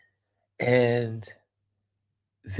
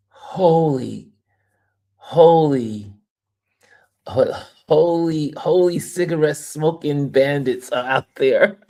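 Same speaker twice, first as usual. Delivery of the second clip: whispered then louder shocked holy; building disbelief from a whisper; stunned holy, holy, rising louder; shocked exclaim; 3 semitones higher, 5 dB louder than usual. Real, not acted. Exclaiming at smokers everywhere.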